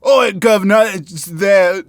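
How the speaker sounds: loud, hammed-up Cockney crossed with Southern drawl; badly faked Cockney with Southern drawl; Southern-drawl Cockney mashup. Shown as a demonstration. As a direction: attempt a clumsy Cockney and Southern blend. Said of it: "southern drawl and cockney being together".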